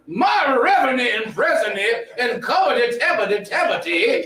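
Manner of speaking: Southern preacher impression. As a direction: ham up a Sharpton-style sermon. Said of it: "sounding like a Southern preacher".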